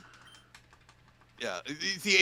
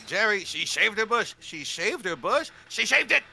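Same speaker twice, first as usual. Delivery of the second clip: Carmela Soprano impression; 6 semitones higher than usual. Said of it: "in the style of Carmela Soprano".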